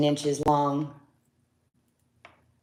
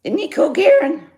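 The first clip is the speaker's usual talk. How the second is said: much higher, delighted question; excited gush; 12 semitones higher, 4 dB louder than usual. Real, not acted. Seller gushing to viewer Karen about the brooch, high and delighted. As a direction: show off the brooch with glee.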